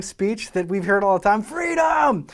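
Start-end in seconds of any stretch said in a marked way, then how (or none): 1.4-2.3 a long, much higher shouted freedom; Braveheart battle cry. Shown as a demonstration. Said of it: "It gives me chills just to say it".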